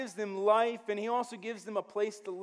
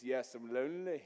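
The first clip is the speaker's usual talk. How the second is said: mopey lonely Adam; 9 semitones lower, 5 dB quieter than usual. Retold or imitated. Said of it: "And he goes".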